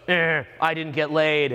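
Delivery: slow, dragged-out mock grumble; whiny complaint. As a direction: imitate a sulky complainer. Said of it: "he's, like, complaining".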